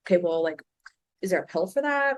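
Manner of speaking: a touch of naive asking; mock listener question. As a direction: play a naive follower asking for a shortcut. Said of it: "you're gonna get a message like".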